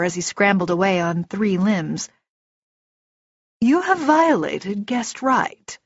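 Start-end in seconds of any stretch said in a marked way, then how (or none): 3.6-5.8 calm, slow, higher elf voice; slow, formal, unruffled accusation; Etri. A narrator's reading. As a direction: pronounce a charge with measured composure. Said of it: "Etri continued calmly".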